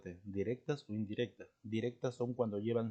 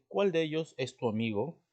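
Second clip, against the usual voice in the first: CUÁL hit high and loud, rising end; pregunta directa; 5 semitones higher, 7 dB louder than usual. Shown as a demonstration. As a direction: ask loudly, raising pitch on "Cuál". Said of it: "Estás preguntando". (pregunta fuerte y aguda con énfasis en "Cuál")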